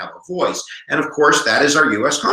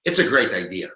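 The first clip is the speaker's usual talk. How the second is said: raised, hammed-up Italian accent; 3 semitones higher than usual. Virginia proposing population-based representation, put-on Italian accent. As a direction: play a mock-Italian delegate pitching a plan. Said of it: "you have an Italian accent".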